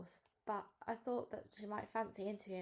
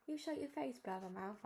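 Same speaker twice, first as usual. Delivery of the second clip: put-on higher-pitched childish comeback; cross retort; 3 semitones higher than usual. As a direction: snap back at a rival, pitch jumping up. Tracy snaps back at her rival.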